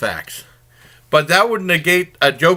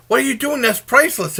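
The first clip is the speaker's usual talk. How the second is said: mock freak-out; 10 semitones higher than usual. Professor to the man destroying artifacts, mock freak-out. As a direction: retell it as a high, alarmed objection. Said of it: "The guy was freaking out".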